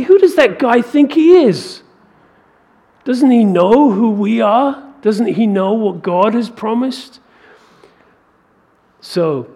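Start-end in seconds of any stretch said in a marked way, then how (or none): 0.0-7.2 put-on high, indignant challenge as young David; confident defiance. Young David scoffing at the giant taunting Israel, confident and indignant. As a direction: voice a bold youth's disbelief, starting loud and high. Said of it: "sensing the confidence, the faith, the seeming arrogance".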